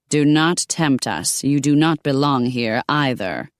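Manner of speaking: slow, stern warning from a medieval lady; lightly voiced cold noblewoman.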